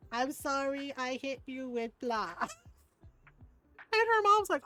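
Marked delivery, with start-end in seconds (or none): 0.1-2.6 put-on slow, drawn-out kid's sorry; sheepish child apology. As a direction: imitate a caught child apologizing. Retold child's reluctant apology.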